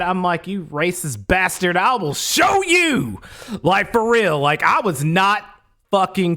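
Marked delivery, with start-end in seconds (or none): 0.5-3.2 angry threat. Retold or imitated. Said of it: "Oh, I was so mad".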